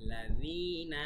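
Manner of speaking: "লাযীনা" with a voiced th for "য"; tongue-tip dhal in "লাযীনা", long "যী"; clear dhal. Shown as a demonstration. Teacher showing how dhal sounds, clear "লাযীনা". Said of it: "জাল এভাবে".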